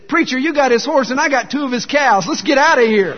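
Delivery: high, forceful comic yell for a punchline; acted shout. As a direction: shout it like the deacon in a getaway. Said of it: "the deacon shouts at him".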